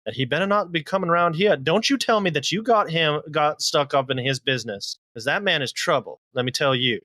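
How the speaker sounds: lightly voiced scolding hostess; a hint of a warning mother; stern older woman. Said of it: "She says".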